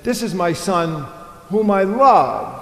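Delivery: "whom I love" slowed and lifted; tender reading. Shown as a demonstration. Preacher tenderly quoting Matthew's words of love. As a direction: linger lovingly on "love". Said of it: "it says".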